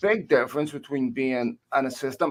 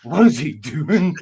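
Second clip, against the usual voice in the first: mock Dutch accent; 2 semitones higher, 7 dB louder, slower than usual. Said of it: "his thick Dutch accent".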